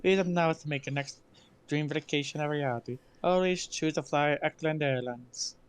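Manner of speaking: playful fake Italian accent; dumb Italian accent. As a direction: read it like an Italian announcer. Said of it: "I was just gonna do a dumb Italian accent".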